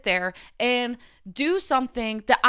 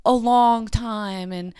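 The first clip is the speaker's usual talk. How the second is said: high, loud sarcastic singsong; mock the version they want to hear, high and loud; sarcastic mock quote; 4 semitones higher, 3 dB louder than usual. Mocking the accusers with a high, loud sarcastic retelling. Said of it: "do you want me to be like".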